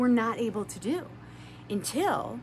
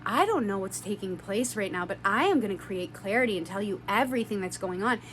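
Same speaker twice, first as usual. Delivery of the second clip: gentle, loving; 4 semitones lower than usual. Retold or imitated. Telling Susan on the phone what is happening, gently. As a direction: retell it gently, keeping it low and measured. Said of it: "loving and so kind and so gentle".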